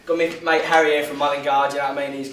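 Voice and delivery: cheeky London geezer voice; London accent. Pretend. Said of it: "he's been affecting a really good London accent".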